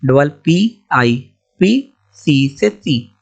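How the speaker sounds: pieces said slowly, syllable by syllable; slow sounding out. Shown as a demonstration. Tutor sounding out coppice slowly. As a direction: sound each part out slowly. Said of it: "तो सीओ से कॉ".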